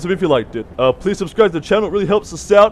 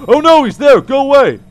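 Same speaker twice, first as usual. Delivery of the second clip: panicked shout; 5 semitones higher, 5 dB louder than usual. Real, not acted. Chickens appear on camera.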